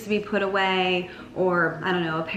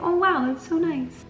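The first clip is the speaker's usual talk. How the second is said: charmed delight; 9 semitones higher than usual. Pretend. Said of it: "It's like".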